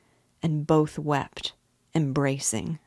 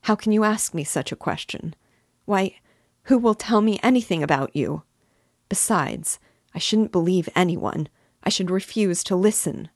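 higher, pleading mother voice; a worried mother begging her son to talk; anxious mother; 3 semitones higher, 5 dB louder than usual. Acted. Mother pleading with her son, voice raised and anxious.

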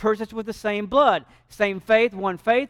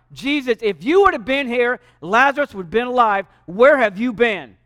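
louder, accusing complaint to Jesus; bold reproach; 5 dB louder than usual. Retold or imitated. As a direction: confront him boldly, slowing at the end. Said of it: "Martha is more like".

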